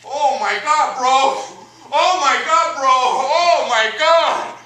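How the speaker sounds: loud, high excited gushing; excited gushing fan. Retold or imitated. Old coworker gushing at the comic after the movie, loud excited. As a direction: gush like he just met a star.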